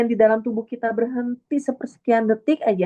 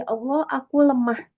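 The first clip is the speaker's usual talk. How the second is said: pitched up, pleading admission of weakness; humble confession; 6 semitones higher than usual. Pretend. Speaker voicing a humble prayer, higher pleading tone. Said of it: "mengakui sama Allah".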